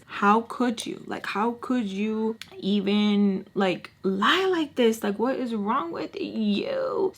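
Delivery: slow, drawn-out exasperation; mad disbelief. Retold or imitated. Girl confronting the boy over his lie, slowly exasperated. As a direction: stretch every word in retold outrage. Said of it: "I'm just so mad".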